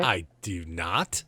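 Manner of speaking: slow, spaced-out refusal; drawn-out denial. Acted. Half-elf answers offer of a drink, drawn-out denial. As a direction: stretch out each word of the denial. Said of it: "She says".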